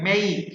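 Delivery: "মেক" said as meik; "মেক" with a clear ei vowel; diphthong EI. Shown as a demonstration. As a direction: glide from e to i in "মেক". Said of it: "তাহলে এটা উচ্চারণ হচ্ছে".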